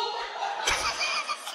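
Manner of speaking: high airy burst of laughter. Real, not acted. Preacher laughing at own story.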